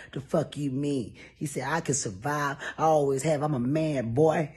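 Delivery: put-on a light Texas twang on a drunk boss; lightly voiced drunk Houston man; Texas drawl. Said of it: "That's when his Texas really come out".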